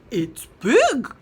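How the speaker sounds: loud clucky chicken voice; small chicken clucking. Acted. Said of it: "clucked the smaller chicken".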